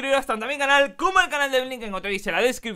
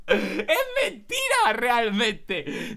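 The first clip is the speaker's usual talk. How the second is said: laughing; 3 semitones higher, much slower than usual. Real, not acted. Player admits the cat's story is a lie, laughing. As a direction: squeal it slowly while cracking up.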